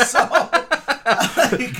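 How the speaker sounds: laughing through the line; cracking up mid-sentence. Real, not acted. Both laughing at gynecologist joke.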